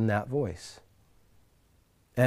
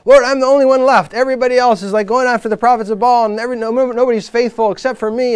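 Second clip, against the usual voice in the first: high, loud imitated griping; hammed-up protest, pitched up and pushed hard; complaining; 8 semitones higher, 8 dB louder than usual. Elijah griping to the Lord that he alone is left, complaining. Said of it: "complaining again".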